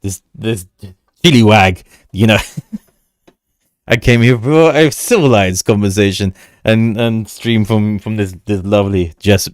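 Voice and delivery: lightly voiced hammy stage actor; mock-grand, theatrical and indignant; Thespian voice. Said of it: "said that in a Thespian voice".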